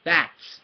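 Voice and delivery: "Bats" said alone with a distinct ts ending; clear final TS. Shown as a demonstration. Teacher showing the end sound, "Bats" with clear ts. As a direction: land on the ts in "Bats". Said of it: "This sound at the end with a T S".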